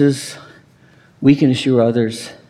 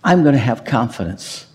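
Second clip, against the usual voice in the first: prayerful. Acted. Prayer-like address to Jesus.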